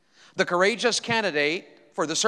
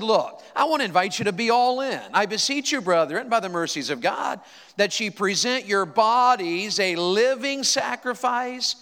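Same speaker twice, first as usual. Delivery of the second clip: preaching scripture; 3 semitones higher than usual. Acted. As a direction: lift the scripture like a sermon. Preacher quoting Paul's letter.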